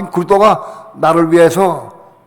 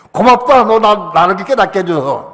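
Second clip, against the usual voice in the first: mock thanks; 4 semitones higher, 4 dB louder than usual.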